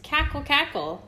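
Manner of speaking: high clucking hen laugh. A narrator's reading. Reading to a baby, a mother hen clucking. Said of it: "she clucked and laughed".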